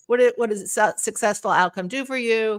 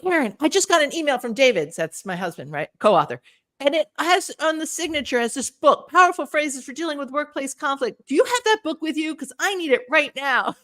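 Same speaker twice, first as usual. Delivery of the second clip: fired up; 5 semitones higher than usual. Retold or imitated. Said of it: "he was fired up".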